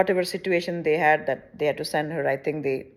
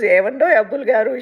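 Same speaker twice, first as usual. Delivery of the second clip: mock Rajahmundry Telugu; 3 semitones higher, 6 dB louder, faster than usual. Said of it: "And when she goes".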